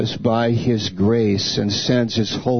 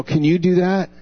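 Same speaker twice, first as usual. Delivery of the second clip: higher-pitched challenge, question after question; pressing rhetorical questions, pitched up; God challenging an idol; 6 semitones higher than usual. Acted. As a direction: lightly voice God quizzing a powerless idol. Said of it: "God is saying to the idol".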